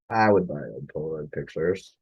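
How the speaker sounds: "I" stressed as a correction of "we". Acted. Narrator correcting who bought old photos, stress on "I".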